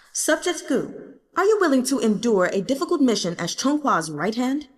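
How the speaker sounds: a hint of a young ruler pleading his case; emperor's voice. Emperor asks Gu.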